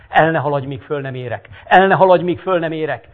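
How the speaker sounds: crippled man howling at his servants. Acted. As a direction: yell for him to wait. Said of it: "Üvöltött".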